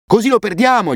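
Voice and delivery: high, alarmed shout. A narrator's reading. Boy shouting at his friend running the wrong way, high alarmed yell. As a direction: cry out that the kite is slipping away. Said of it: "gli grideai".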